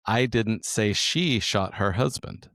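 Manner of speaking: "she" stressed, slow, rising end. Shown as a demonstration. Third take for the co-host, stress on "she". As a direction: lean on "she" in "I didn't say she shot her husband". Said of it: "we're gonna use the sentence".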